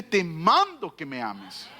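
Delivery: low, slow solemn command; God commanding. Acted. Preacher quoting God in low slow command. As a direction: lay down the order deep and slow. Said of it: "Dios dice".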